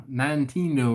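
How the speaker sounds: put-on "Nintendo" as nine-TEEN-doe, long I at the start; rough imitated mispronunciation. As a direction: approximate his odd "Nintendo" with a long-I first syllable. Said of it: "or something like that".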